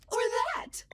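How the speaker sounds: high breathy whisper; AI shows a whisper voice. Shown as a demonstration. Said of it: "I can sound like anyone".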